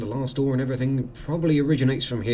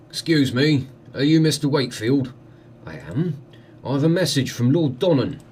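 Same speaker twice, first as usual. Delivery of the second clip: lightly voiced, louder messenger; 3 dB louder than usual. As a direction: call out a message to a stranger. Villager delivers a message.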